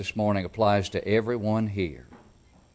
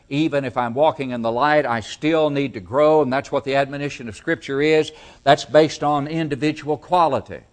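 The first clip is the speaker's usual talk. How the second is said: building preaching; 4 semitones higher, 9 dB louder than usual. Acted. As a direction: preach with growing insistence, landing hard on the end.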